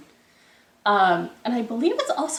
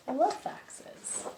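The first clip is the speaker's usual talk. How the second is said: softer breathy confession; whispered aside; 5 semitones higher, 8 dB quieter, much slower than usual. Real, not acted. Teacher confiding to the children in a soft whisper. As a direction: whisper it fondly.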